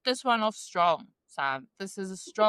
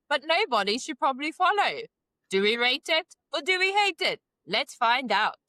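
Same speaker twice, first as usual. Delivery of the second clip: upbeat host reading the show intro; game show host. Acted. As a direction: announce it like a TV quiz host. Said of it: "in my best game show voice".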